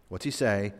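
ordinary talk

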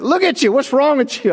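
retelling the boss's reaction, in a high astonished voice; mock astonishment. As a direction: gawk at him in a high voice. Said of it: "I was like".

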